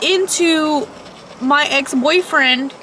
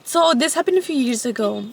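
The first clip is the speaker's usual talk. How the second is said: scary voice; 2 semitones lower, 3 dB quieter than usual. Shown as a demonstration. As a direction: tell it like a ghost story. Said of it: "say it in a scary voice".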